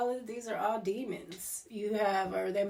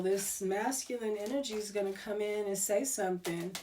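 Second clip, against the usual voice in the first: ordinary talk, nothing marked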